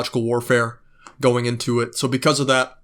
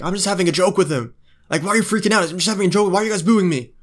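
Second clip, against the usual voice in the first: mock Kyrgios; 6 semitones higher, faster than usual. Mocking Kyrgios whining at the crowd for booing him, high mock whine. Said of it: "and then he's like".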